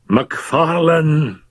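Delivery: somewhat loudly. Acted. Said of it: "he said somewhat loudly".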